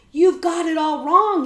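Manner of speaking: high, loud protest; declared. A narrator's reading. Boy protests his innocence to the outlaw, declaring loudly. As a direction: insist on it firmly. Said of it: "he declared".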